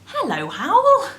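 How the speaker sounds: bright loud hello into the phone; loud phone greeting. Real, not acted. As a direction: call out a cheery hello. Answering husband's phone call.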